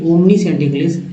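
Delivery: omniscient repeated with a rise at the end; pronunciation demo. Shown as a demonstration. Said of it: "यह एक बार उच्चारण करके देखिए". (omniscient का दोहराया उच्चारण)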